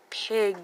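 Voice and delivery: "Pig" slowly, every sound distinct; short I sound. Shown as a demonstration. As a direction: stretch out "Pig" with an ih vowel and released g. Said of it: "is the short I".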